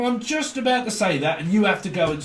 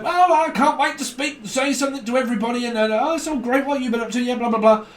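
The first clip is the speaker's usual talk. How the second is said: chatty show-off; 6 semitones higher than usual. Retold or imitated. Mocking chatty dominant person.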